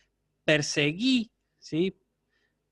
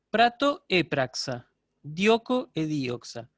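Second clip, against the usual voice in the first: lectura lenta; slower than usual. Shown as a demonstration. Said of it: "recap of forms".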